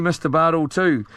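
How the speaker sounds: ordinary talk, nothing marked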